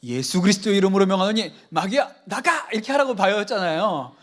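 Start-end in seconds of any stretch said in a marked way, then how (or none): 0.0-2.7 forceful command, rising on 나가; commanding rebuke. Retold or imitated. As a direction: cast the devil out with authority. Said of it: "우리는 뭐라고 배웠어요". (마귀를 꾸짖듯 힘차게 명령하며)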